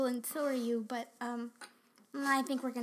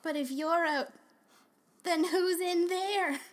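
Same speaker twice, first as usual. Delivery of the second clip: spooky; 5 semitones higher, 5 dB louder than usual. Acted. Spooky reveal question.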